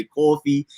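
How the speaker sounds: "coffee" as New York "cawfee"; New Yorker's "coffee"; New York pronunciation. Shown as a demonstration. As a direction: round the first vowel of "coffee" into "aw". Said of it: "He doesn't say".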